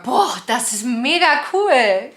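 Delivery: slow, drawn-out wow; mock amazed. Shown as a demonstration. Vlogger showing how Germans say boah when amazed. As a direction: stretch it out, impressed.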